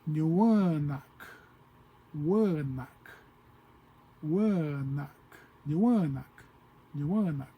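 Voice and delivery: "Nyuanak" and "Wanak" said in turn, each with a falling end; O'odham word demo. Shown as a demonstration. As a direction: repeat "Nyuanak" slowly like a teacher. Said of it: "you would say".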